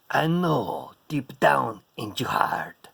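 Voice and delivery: breathy whisper, slow, teasing. Pretend. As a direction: whisper it close like a secret.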